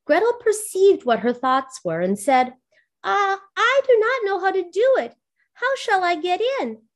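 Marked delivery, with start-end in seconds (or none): 3.0-6.9 put-on higher, feigned helpless girl; a girl tricking the witch, high and innocent; innocent little girl. A narrator's reading. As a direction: play dumb in a small high voice. Gretel pretends ignorance.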